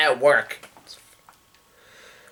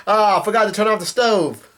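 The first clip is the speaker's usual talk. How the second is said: higher-pitched mock realisation; lightly acted, higher-pitched "oops" voice; retold sheepish cook; 7 semitones higher than usual. Cook owning up to leaving the stove on, mildly hammed-up dismay.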